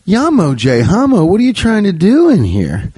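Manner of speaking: high-pitched mock incantation; mock magic spell. To the bank teller, casting a fake spell, high mock incantation. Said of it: "putting a spell on people".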